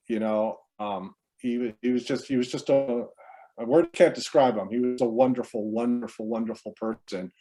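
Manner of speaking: quiet, fading grief; grieving. Real, not acted. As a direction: voice sinking with loss. Eulogy for brother, grief.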